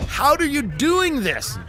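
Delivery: incredulous interrogator; hammed-up confusion; mock Saudi official. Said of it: "Saudi officials were going".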